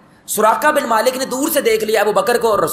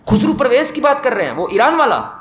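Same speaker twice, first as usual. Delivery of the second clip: incredulous question; 3 semitones higher than usual. Acted. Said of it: "وہ کہتا ہے".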